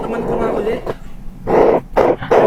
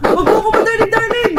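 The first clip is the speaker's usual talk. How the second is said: angry; 4 semitones higher than usual. Acted. Wife catching cheating husband.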